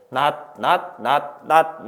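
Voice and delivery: 낫 repeated evenly, each with unreleased t; same final sound. Shown as a demonstration. Teacher shows students the spellings sound alike, every 낫 as nat. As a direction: separate beats of 낫, all ending on a stopped t. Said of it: "발음 어때?".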